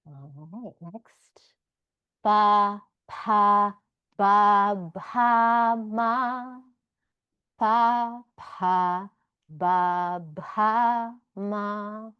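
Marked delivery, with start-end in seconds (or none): 2.2-12.1 ba pa ba ba ma said loud from the lips, pa aspirated; teacher modelling the labial row for the class; Sanskrit labial syllables. Shown as a demonstration. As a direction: recite the lip row loudly. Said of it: "These are all in the fifth labial mouth position".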